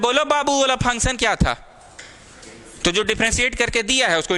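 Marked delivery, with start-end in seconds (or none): 0.0-1.6 coaxing quiz voice. Retold or imitated. Quiz posed to a child.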